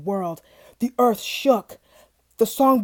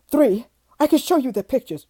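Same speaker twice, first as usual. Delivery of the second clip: nervous babbling; 4 semitones higher, 5 dB louder than usual. Acted. Terrified father babbles.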